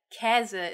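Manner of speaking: 'Käse' with a long, open eh. Shown as a demonstration. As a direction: say 'Käse' with a wide ä as in Bären. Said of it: "is not actually pronounced".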